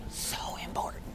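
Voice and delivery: whispered repeat for emphasis; hushed, intense whisper; emphatic whisper. Real, not acted. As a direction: breathe it out softly to let it sink in.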